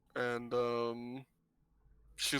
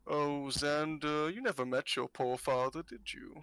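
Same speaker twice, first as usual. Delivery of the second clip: put-on knowing old fortune-teller; 2 semitones higher than usual. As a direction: dangle a secret before them.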